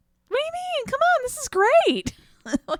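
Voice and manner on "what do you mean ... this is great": very high-pitched, giddy goofball voice. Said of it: "Hutter is just like".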